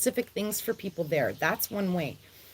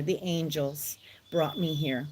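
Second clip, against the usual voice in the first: breathy hushed whisper, softer; 7 semitones lower, 6 dB quieter than usual. Real, not acted. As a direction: whisper it like a sacred secret. Reverent aside after naming God.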